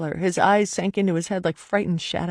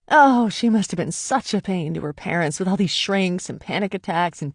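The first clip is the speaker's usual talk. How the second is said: mocking. Mocking his pity.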